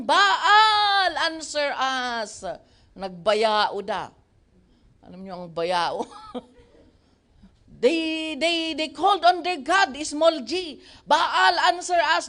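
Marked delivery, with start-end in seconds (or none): 0.0-2.4 loud pleading call, then dropping; mock cry to Baal. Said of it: "they called on the name of Baal". 11.1-12.3 louder call to Baal; shouted plea. Acted. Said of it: "they shouted".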